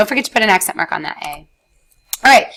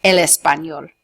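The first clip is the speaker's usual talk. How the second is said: "Me vuelve loca el español" very slowly; slow model sentence; much slower than usual. Shown as a demonstration. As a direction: drag out each word of "Me vuelve loca" for learners. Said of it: "I would say".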